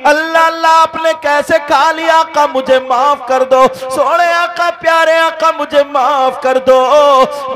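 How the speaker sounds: loud, drawn-out tearful plea; tearful pleading. Acted. Hafsa at the Prophet's feet begging forgiveness, tearful. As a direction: plead for forgiveness, drawing out the words. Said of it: "कदम पकड़ के रोने लगती है".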